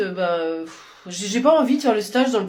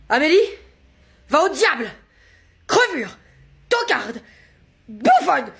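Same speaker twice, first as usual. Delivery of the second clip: mock angry dictation; 6 semitones higher than usual. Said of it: "Ça fait partie de la dictée?".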